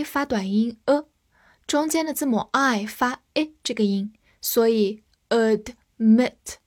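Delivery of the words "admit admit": "admit" with the stress on -mit; stress on second syllable. Shown as a demonstration. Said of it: "重音在后面". (admit 重音放在后面的 mit 上)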